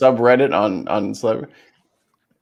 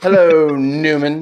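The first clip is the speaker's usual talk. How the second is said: slow, loud, mock-sneering hello; Seinfeld greeting; 3 semitones higher, 5 dB louder than usual. Joking about the guest's name, greeting him Seinfeld-style. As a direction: drag out the hello with mock disdain.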